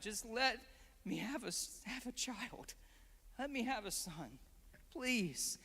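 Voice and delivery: soft, imploring plea trailing into please; pleading prayer. Retold or imitated. Hannah pleading with God for a child, softly imploring. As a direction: plead gently, as if running out of strength. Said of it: "She's pleading for God".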